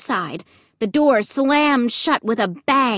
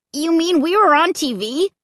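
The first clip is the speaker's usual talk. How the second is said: high, amazed question; excited cry; 8 semitones higher, 3 dB louder than usual. A narrator's reading. Luke learning he was on TV, crying out. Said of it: "Luke cried".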